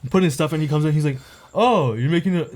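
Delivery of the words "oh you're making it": feigned surprise in a housemate's manner; imitating housemate. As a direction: do a light take-off of your housemate. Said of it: "like, this is how he talks".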